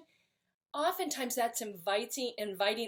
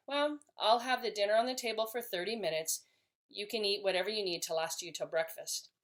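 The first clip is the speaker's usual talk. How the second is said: calm, okay with it. Shown as a demonstration. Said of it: "communicate in the way I say it".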